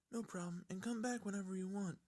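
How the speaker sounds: hint of a timid filly; lightly voiced Fluttershy.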